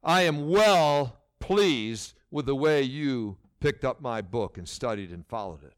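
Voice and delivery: a touch of God's tender praise; mild approving. Acted. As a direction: speak like a father who is proud. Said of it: "Or is he gonna say".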